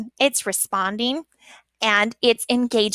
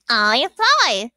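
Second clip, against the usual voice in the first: ventriloquist puppet voice; 4 dB louder than usual. Shown as a demonstration. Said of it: "hide my very bad ventriloquism skills".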